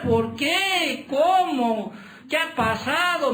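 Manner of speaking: lightly voiced puzzled child. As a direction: play a confused little boy who lost his treat. Child wonders why no ice cream.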